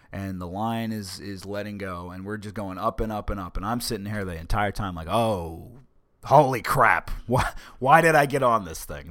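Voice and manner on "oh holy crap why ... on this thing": scared yell, a bit hammed-up; panicked shout. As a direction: yell it out in alarm, half laughing at yourself. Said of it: "I'm shouting this down at the guys".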